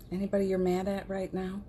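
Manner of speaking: ordinary delivery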